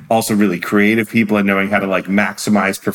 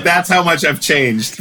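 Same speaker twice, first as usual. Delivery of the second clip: laughing; 7 semitones higher, slower than usual. Retold or imitated. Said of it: "And you're like".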